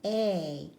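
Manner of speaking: "A" said as the long "ay" sound; "A" as the long "ay", not the short vowel. Shown as a demonstration. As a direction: say "A" like its letter name. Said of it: "to show this vowel says".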